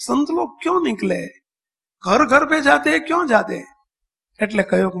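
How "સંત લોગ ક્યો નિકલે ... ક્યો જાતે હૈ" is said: imitating an old woman's higher-pitched questioning. Old woman asks why monks visit houses, questioning. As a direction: put the questions in a raised pitch. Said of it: "પ્રશ્ન પૂછે છે".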